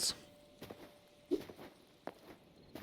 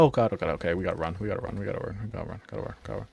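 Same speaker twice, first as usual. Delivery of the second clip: panicked muttering; 2 semitones lower, 3 dB quieter, much faster than usual. Real, not acted. Fleeing a monster.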